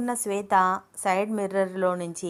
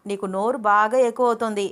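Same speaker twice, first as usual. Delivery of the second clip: scolding; 3 semitones higher, 5 dB louder than usual. Acted. Abhiram scolds, twists ear.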